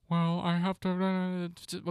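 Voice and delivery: mocking a complainer; high mock whine; whiny excuse voice. Imitating a listener's excuse, mocking whine.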